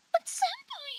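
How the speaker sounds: squeaky little anime-style plea; ooh voice. Shown as a demonstration. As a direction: go very high and small. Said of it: "Wow, the ooh".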